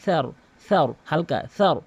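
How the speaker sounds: touch tongue tip to front teeth for স্যার; light tha. Shown as a demonstration. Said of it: "সামনে দুই দাঁতের আগার সঙ্গে". (স্যার হালকা, জিভের আগা দাঁতে)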